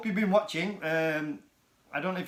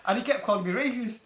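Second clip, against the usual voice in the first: excited recap; 5 semitones higher, 4 dB louder than usual. Real, not acted. Retelling the role play excitedly.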